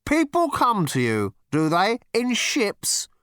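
high-pitched, leading interrogation; urgent, officious prodding; insistent questioning. A narrator's reading. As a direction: press each phrase at him. Zarniwoop presses the man.

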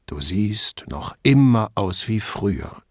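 slow, hollow graveside drone; sepulchral voice. Acted. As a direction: intone it like a gravestone speaking. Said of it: "intonierte Brunetti mit Grabesstimme".

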